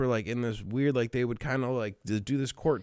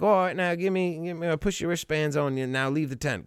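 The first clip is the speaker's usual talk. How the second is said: put-on half-hearted British accent, higher at the start; attempted British accent; 4 semitones higher than usual. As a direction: lightly imitate a British check-in girl. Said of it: "I can't do the accent".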